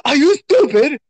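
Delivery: high-pitched mock British chef berating someone; Gordon Ramsay. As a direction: scold like an exasperated British chef. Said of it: "sound like Gordon Ramsay".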